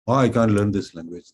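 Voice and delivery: lightly hammed-up "oh, I can't" protest; mock complaint. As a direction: imitate a learner giving up. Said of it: "This I've heard".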